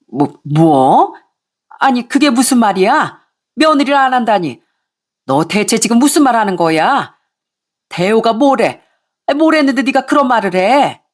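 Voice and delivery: lightly voiced flustered in-law; a hint of alarmed mother-in-law; shocked mother-in-law.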